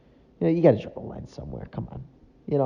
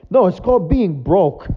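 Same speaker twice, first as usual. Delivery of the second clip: laughing retort; 6 semitones higher, 5 dB louder than usual. Real, not acted.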